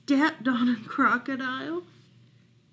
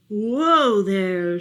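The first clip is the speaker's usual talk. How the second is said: called out; 7 dB louder than usual. Acted. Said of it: "said Moose".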